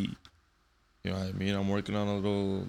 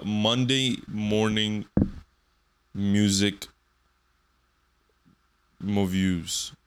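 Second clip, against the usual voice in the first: segment announcer; much slower than usual. Acted. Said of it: "I'm gonna do a segment".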